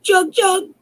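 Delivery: high chirping birdcall; Jorinda, now a nightingale, singing; nightingale song. Acted. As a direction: trill it like a tiny bird. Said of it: "changed into a nightingale who sang".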